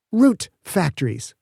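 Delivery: slow, pointed correction, pitch up; snapped correction. Acted. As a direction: bite off the term. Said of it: "Petra snapped".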